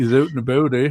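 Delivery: put-on Canadian accent with a tacked-on "eh". Hosts on a live show joking about a Canadian phrase, Canadian impression. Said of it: "we were just doing our Canadian impressions".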